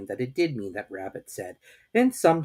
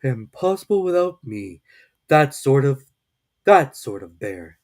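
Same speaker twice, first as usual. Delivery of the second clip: proud; 4 semitones higher, 9 dB louder than usual. A narrator's reading. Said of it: "said proudly to himself".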